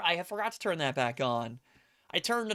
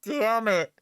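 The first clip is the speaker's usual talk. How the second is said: louder, higher frustrated outburst; exasperated curse; 7 semitones higher, 7 dB louder, slower than usual. Retold or imitated. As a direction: blurt it out as the wine spills. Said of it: "And I was like".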